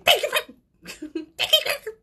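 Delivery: very high, loud squeal; mock panicked thanks. Tossing back a compliment like a hot potato, panicked squeal.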